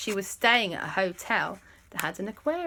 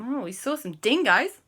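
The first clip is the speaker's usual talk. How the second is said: higher, playful Australian lilt; put-on Australian accent; 5 semitones higher than usual. Friends telling Andy about dingoes, mock Australian accent. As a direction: lean into an Australian twang. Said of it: "We have to say it like that".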